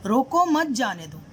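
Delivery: "रोको मत" grouped as one slow phrase, then "जाने दो"; comma after मत. Shown as a demonstration. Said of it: "comma लगा दिया". (धीरे से "रोको मत", फिर "जाने दो")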